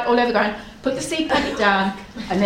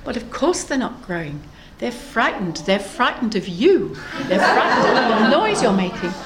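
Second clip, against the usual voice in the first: calm, measured storybook reply. Acted. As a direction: explain it evenly, without fuss. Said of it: "Platypus very calmly says".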